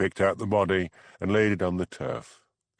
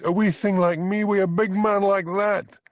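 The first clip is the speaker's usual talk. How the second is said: high, loud Scots protest; indignant Scots woman; 13 semitones higher, 5 dB louder than usual. A narrator's reading. Bella denying abuse to the constable, high indignant Scots. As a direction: scoff in a broad Scots voice.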